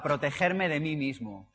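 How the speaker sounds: protegerme de mí mismo drawn out slowly with a falling end; slow emphasis. Shown as a demonstration. Speaker naming his concept to the audience, slow emphasis. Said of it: "un concepto que yo llamo".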